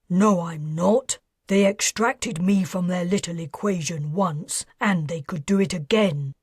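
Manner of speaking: a hint of a nervous ex-financier; defensive man voice. Aubreo voiced in dialogue.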